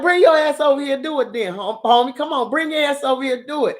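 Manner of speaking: tough dare. Retold or imitated. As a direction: dare them to come over. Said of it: "We like".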